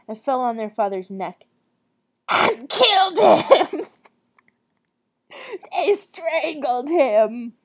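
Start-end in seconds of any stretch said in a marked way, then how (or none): 2.3-3.8 slow, high, loud hammed-up cry; mock dramatic shout. Reader twisting the happy reunion, mock dramatic shout. 5.7-7.5 drawn-out, hammed-up exclamation; mock dramatic cry. Reader twisting the father's reunion, slow mock dramatic cry.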